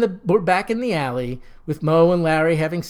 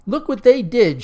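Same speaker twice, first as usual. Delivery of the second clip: a louder shout, raised in pitch; 5 semitones higher, 5 dB louder than usual. A narrator's reading. Mother shows the vacuum to the department head, shouting. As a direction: yell it in outrage. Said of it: "shouts the woman".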